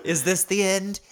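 high, tearful street urchin voice; quavering little orphan voice; plucky hopeful orphan. Retold or imitated. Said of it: "I miss your little street urchin voice".

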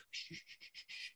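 soft unvoiced shushing; a whispered shh, shh; hushing whisper. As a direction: hush them so the sleeper stays asleep. Innkeeper hushing by sleeping guest.

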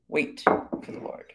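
slow whisper of "Wait for the Lord"; whispered repeat. Shown as a demonstration. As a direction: hush "Wait for the Lord" slowly, almost no voice. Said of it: "Notice he repeats that twice".

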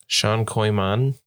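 "Sean Koyman" sounded out slowly; careful pronunciation. Shown as a demonstration. Co-host asked to pronounce a character's name, careful and slow. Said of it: "you wanna pronounce this one".

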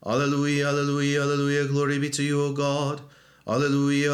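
steady church reading tone; measured prayerful intoning; liturgical intoning. Acted. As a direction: intone it evenly, like a reader at vespers. Reader intones doxology and alleluia.

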